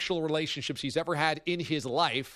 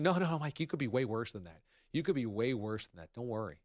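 lightly acted soothing, low and soft; quick, hushed imitation of someone consoling; mock reassurance; 5 semitones lower, 5 dB quieter, faster than usual. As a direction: talk him down softly, dropping lower and quieter. Mimics media reassuring Tyson.

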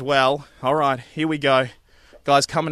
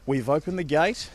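hushed; 7 dB quieter than usual. Real, not acted. Sneaking up to the front door.

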